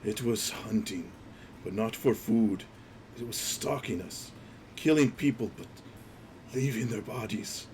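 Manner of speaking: lightly voiced raspy corpse; a hint of the dead man's rasp; understated raspy witness from beyond the grave; raspy voice returns. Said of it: "you hear the voice returns".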